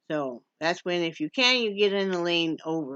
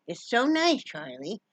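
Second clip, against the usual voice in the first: pet talk; 3 semitones higher, slower than usual. Real, not acted. Talking to the pet dog.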